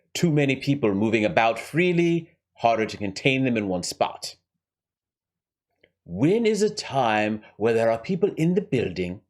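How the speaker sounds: lightly voiced scheming villain with a rough accent; Hans. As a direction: lay out the heist deliberately, in character. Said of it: "Let's go back to Hans".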